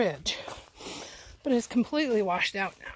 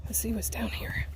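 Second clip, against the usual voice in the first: whispered; 5 dB quieter than usual. Real, not acted. Exploring unknown side trail.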